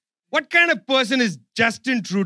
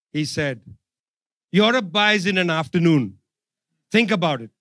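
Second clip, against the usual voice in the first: calm; 3 semitones lower than usual. Retold or imitated. Minister calmly answering Europe's critique. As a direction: lay it out calmly. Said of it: "he said very calmly".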